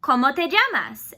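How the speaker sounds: slow demo introduction. Shown as a demonstration. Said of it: "So I will say".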